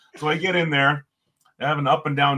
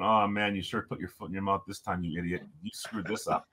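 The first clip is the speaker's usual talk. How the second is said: muttered under the breath, much softer; quiet self-scolding; 3 semitones lower, 7 dB quieter than usual. Retold or imitated. Walking back to the hotel, scolding himself in a soft mutter. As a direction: scold yourself quietly, almost to yourself.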